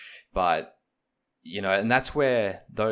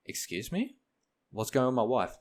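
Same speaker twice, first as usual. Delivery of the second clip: alarmed questioning; 5 semitones higher than usual. Retold or imitated. Panicked dad questioning nurse.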